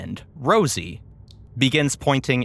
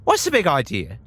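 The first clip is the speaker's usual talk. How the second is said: brain's voice; faster than usual. Acted. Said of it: "And it says".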